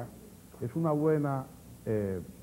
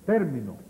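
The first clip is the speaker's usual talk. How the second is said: TÉR punched and the rest dropping; TÉR-mi-no, proparoxytone; stress on first syllable; 5 semitones lower, 4 dB louder than usual. Shown as a demonstration. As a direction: hit the first syllable of "término". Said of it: "Esdrújula".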